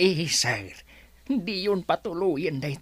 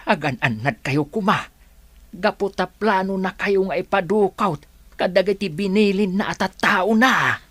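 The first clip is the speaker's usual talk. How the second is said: urgent warning; 5 dB louder than usual. Acted. Worker warns madam of boss's plot.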